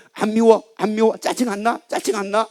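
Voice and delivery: insistent mock tempter; tempting devil. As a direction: prod someone into resentment, lightly acted. Devil goading husband over sleeping wife.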